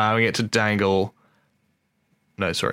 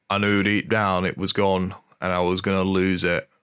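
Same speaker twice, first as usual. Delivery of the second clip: lightly put-on Geordie accent; 2 semitones lower than usual. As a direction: read it in a rough attempt at Geordie. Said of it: "I don't know why he's a Geordie".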